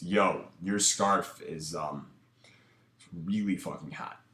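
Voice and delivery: slow, calm and level, the voice never going up; chill, relaxed. Shown as a demonstration. Coach demos the right compliment to the girl, slow and chill. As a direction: say it cool, like you don't need anything back. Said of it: "very chill, relaxed, calm".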